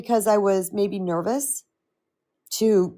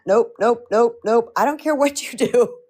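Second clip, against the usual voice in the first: brisk dismissal; 3 semitones higher than usual. Shown as a demonstration. Coach brushing off the inner critic, brisk and firm. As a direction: shoo the thought away. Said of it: "dismissing the inner critic".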